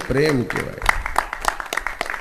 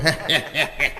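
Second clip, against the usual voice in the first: fake laugh. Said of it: "ખોટે ખોટા દાંત કાઢતા હોય છે".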